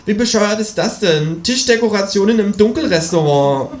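high, indignant animal voice; outraged at the table decoration; indignant kangaroo. Acted. Kangaroo complains to the narrator, high and outraged.

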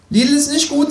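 high kangaroo voice; high-voiced talking kangaroo; kangaroo character. A narrator's reading. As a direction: play the kangaroo, pitched high. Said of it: "sagt das Känguru".

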